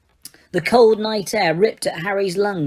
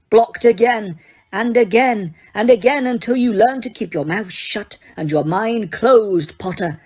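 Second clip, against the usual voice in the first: sneering. Acted. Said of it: "sneered Snape".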